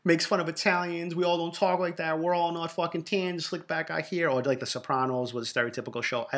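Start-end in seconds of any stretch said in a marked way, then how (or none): 0.0-4.3 lightly voiced offended Italian, a bit higher; a hint of a self-pitying complainer; mock whiny complainer. Mocking an offended Italian who whines about the show. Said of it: "I'm not somebody who cries like".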